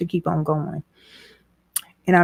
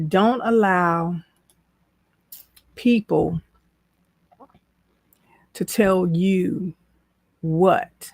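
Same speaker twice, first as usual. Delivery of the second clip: whisper; much slower than usual. Real, not acted. Whispered aside mid-sermon.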